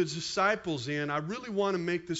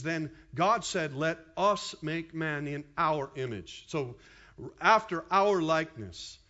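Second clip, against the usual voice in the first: scripture reading. Shown as a demonstration. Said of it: "it says".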